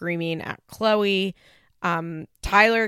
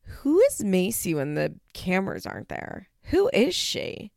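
baffled questioning. Retold or imitated. Host reacting to Macy's claim, baffled and probing. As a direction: demand to know, stretching it out. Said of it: "And I'm like".

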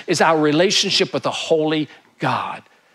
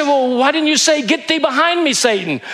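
higher, louder incredulous husband; husband scolding wife in the joke, higher and louder; mock indignant husband; 11 semitones higher, 4 dB louder than usual. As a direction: scold her for not resisting.

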